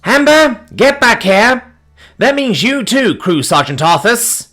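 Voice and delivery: very high, loud, slow shout down the hall; yelling. Acted. Captain yelling at her daughter and the snake, shouting. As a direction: bark them back like an angry mother. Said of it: "she yelled down the corridor".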